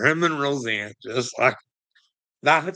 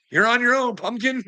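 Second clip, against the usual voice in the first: much higher, louder mock-sweet jab; high teasing; 13 semitones higher, 3 dB louder than usual. Real, not acted. Teasing punchline.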